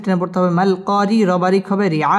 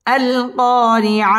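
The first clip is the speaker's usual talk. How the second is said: আল কারিআ recited in one steady chanted breath; recited smoothly; 3 semitones higher, much slower than usual. Shown as a demonstration. Teacher reciting the full word to the class. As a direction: chant আল কারিআ whole, as the finished reading. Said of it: "এখানে ওয়াকফ করতে হবে".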